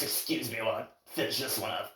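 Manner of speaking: straining through a workout set; mid-exercise strain. Real, not acted. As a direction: talk while pushing out reps. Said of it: "Oh, this burns".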